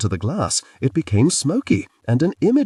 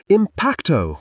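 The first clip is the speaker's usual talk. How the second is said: higher spell cried out together; higher shouted incantation; 8 semitones higher, slower than usual. A narrator's reading. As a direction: call out the spell like a battle cry. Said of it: "we cried out at the exact same time".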